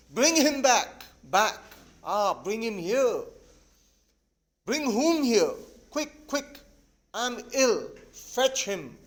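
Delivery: acted wail, pleading urgently; mildly hysterical plea, theatrically wailed. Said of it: "falls into an easy chair and wails".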